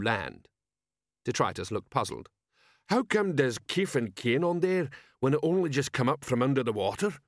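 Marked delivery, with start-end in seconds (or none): 2.9-7.2 dim troll, slightly higher. Acted. Troll sergeant asking his commander, dim troll voice.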